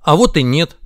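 loud contradicting retort; droning objection. Acted. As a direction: butt in and overrule firmly. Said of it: "загудели ноги". (громко наперекор)

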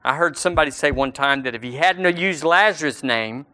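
ordinary talk

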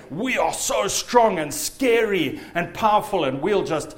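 slowed, hammed-up boast, leaning on each adjective; boastful demons. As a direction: play demons puffing themselves up to seem scary. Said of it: "make themselves seem bigger and more fearful".

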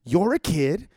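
stern, then blow up at the end; parent's authority. Pretend. Parent to kid who won't get in the car, building to a shout. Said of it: "put your authority out and go".

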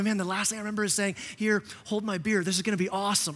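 lightly voiced party guy recalling; dazed guy. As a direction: toss it off like a hazy memory. Imitated knocked-out guy.

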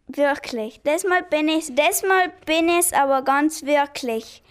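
repeated drilling in German dialect; practising German dialect. Acted. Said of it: "übte das Dialekt sprechen".

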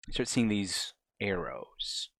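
hushed, slow whisper. Acted. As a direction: whisper it to build dread. GM builds suspense.

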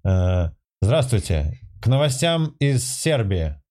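parody news anchor. Pretend. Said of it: "как ведущий новостей".

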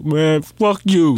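slow, drawn-out mock-angry dismissal; imitating drunk outburst. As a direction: stretch it like a belligerent drunk. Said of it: "he bipolar as hell".

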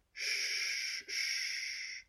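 soft unvoiced shushing; whispered shush. A narrator's reading. Girl soothing the crying dragon, whispered shush. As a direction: hush him gently in a whisper. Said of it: "Dragon Little said".

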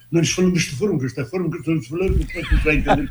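mock Portuguese accent. Shown as a demonstration. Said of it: "Eles não falam desta forma".

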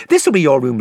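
lightly voiced friendly young king; Caspian. Caspian speaks to Lucy.

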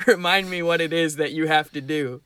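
lightly disguised master giving a prompt; mock-mysterious master, at normal pitch; a hint of a put-on voice, measured delivery; disguised master's voice. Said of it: "Disguising my voice".

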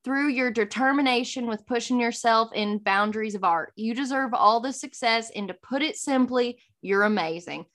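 imitated Southern accent. Reading a friend's congratulations message aloud in Southern accent. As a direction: read it out with a friendly Southern twang. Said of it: "Thank you for doing it in the accent".

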